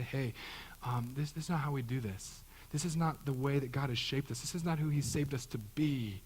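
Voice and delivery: a hint of a tender, gentle dad; lovingly and tenderly. Dad pulling his kid aside after a foolish choice, gently. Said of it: "they lovingly and tenderly say".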